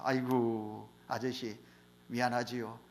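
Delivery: low, hushed, apologetic reply; soft apology. Retold or imitated. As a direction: answer the shouting softly and apologetically. Bumped man apologizes to blind man.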